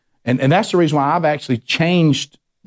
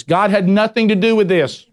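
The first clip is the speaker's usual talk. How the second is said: retold yelling at the TV; 5 semitones higher than usual. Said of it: "I scream at the T V".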